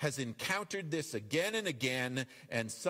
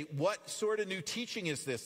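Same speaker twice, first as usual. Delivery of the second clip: a touch of excited wonder, slightly raised; excited question; 5 semitones higher than usual. Acted. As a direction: ask it with mild amazement. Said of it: "they ask excitedly".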